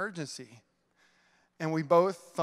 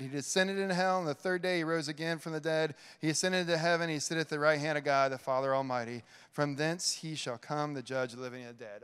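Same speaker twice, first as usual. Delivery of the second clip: creed recitation. Acted.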